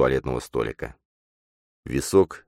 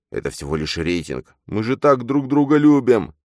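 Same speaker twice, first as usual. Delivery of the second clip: pleading; 8 semitones higher, 4 dB louder than usual. Acted. Matvey begging Nastya.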